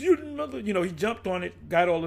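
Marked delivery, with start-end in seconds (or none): 0.0-0.6 imitating a mad yell, pitched high; angry outburst. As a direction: snap the insult out like he lost it. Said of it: "He got mad".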